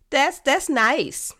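amused, slow and laughing. Real, not acted. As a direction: laugh through the words. Laughing comment on polite answer.

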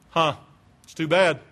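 offhand, mock unconcern; lightly acted lack of interest; indifferent. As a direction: shrug it off. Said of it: "They were indifferent".

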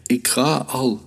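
high little squeak of a reply. A narrator's reading. Boy playing the hare gives in to the hunter, squeaking. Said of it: "Lilo piepte eens".

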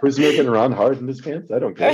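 high laughing outburst. Real, not acted. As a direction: laugh it out in mock exasperation. Laughing mock exasperation.

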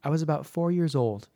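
measured, reflective storytelling with pauses; story narration. A narrator's reading. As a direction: read it as a listener's childhood memory. Reads a listener's story.

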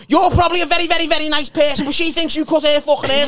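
squeaky overly polite. Retold or imitated. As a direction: sweeten it up high like a nervous uncle making an apology. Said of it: "he's going".

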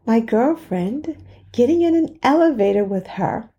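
slowed-down rhetorical question with long deliberate pauses; dramatic pauses. Shown as a demonstration. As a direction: hang on each phrase, let the silence land. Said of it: "It's like a dramatic pause".

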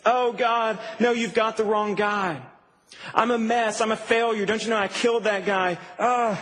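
whiny, self-pitying groan of refusal; whiny temper tantrum. Acted. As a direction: play a mild tantrum, whining excuses. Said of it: "does this whiny temper tantrum thing".

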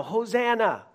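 loud, high Hosanna; crowd shout. Retold or imitated. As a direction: cry it out for the crowd. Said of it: "They're shouting this at Jesus".

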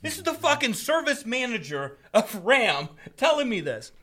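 high-pitched, exasperated disbelief; indignant storyteller in disbelief; incredulous outrage. Real, not acted. Outraged aside about manager's answer.

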